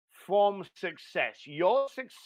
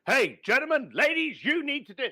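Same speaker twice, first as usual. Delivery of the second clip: higher, lightly hammed-up lecturing; a hint of a pompous guru telling the crowd what to do; mock preachy lecturer; 6 semitones higher than usual. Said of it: "This isn't me going".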